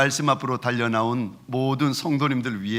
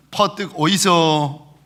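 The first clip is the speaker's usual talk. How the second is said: Gyeongsang dialect; slower than usual. Retold or imitated. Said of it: "경상도 말로는".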